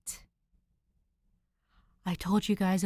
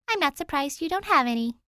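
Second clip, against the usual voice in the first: put-on higher, louder sassy girl; teasing jab; 7 semitones higher, 5 dB louder than usual. Danny teasing Dick about taste, sassy. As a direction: tease him with a smirk.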